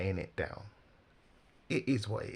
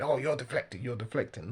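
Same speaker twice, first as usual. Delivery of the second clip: raised, higher-pitched imitation of an irritated accuser; mock angry; 5 semitones higher, 5 dB louder than usual. Commentator imitates the host getting angry with the guest, mock indignation. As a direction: burst in with a mimicked protest, then ease off. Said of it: "getting angry with him and saying".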